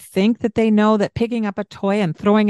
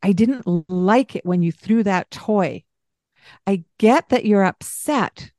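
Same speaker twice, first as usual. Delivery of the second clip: calm parent. Shown as a demonstration. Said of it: "what I want you to do is".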